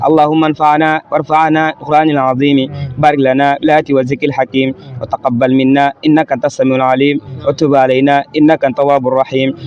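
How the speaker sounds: ordinary talk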